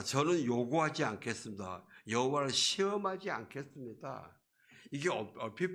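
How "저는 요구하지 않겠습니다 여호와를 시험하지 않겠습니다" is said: livelier acted declaration; seemingly pious refusal. Preacher as stubborn Ahaz refusing God's sign, sounding devout. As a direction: refuse with a show of piety. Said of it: "굉장히 경건한 소리 같아요".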